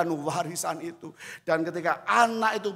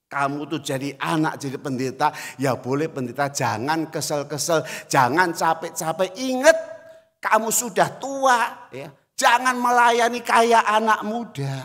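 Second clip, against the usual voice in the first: nagging mother; 5 dB louder than usual. Retold or imitated. Mother nagging her son.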